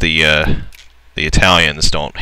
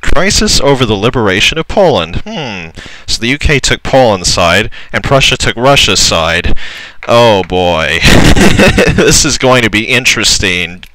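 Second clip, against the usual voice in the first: excited; 5 semitones higher, 5 dB louder than usual. Real, not acted. Excited about coming war.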